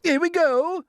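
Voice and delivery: high, loud cheer; excited cry. Acted. Creature cheers as the peach tilts, excited. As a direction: ride the lurch with a shout.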